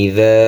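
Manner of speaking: ইদা with the final a drawn out; one-alif stretch. Shown as a demonstration. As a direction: hold the দা of ইদা for one beat. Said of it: "এক আলিফ টান হবে". (ইদা-র দা এক আলিফ টেনে)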